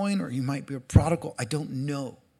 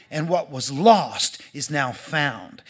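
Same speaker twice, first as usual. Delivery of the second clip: calm a hurt son with love; gentle father; 3 semitones lower, slower than usual. Acted. Father reassuring his jealous older son, tender and slow.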